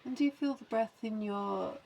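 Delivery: calm, measured guidance with long pauses; guided body scan. Acted. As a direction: guide attention through the body, leaving space after each phrase.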